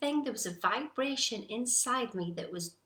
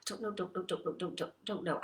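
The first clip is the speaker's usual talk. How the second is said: softly muttered, stuck repetition of a flustered driver; acted frustration; 2 semitones lower, 5 dB quieter than usual. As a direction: stammer it out under your breath, going in circles. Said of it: "you're getting all frustrated".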